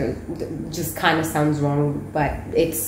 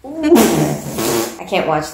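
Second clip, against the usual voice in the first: laughing; 5 dB louder, much slower than usual. Real, not acted. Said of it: "I can't take this seriously".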